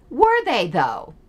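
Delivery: pointedly doubtful question; sceptical challenge. Acted. Critic questioning Elizabeth's claim, sceptical.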